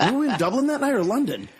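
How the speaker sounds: high, laughing question. Real, not acted. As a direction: ask it through a laugh. Laughing at the mix-up.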